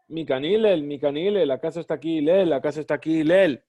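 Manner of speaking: mild mock contempt at the door; scornful. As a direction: sneer the name Hillel without much force. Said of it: "con desprecio".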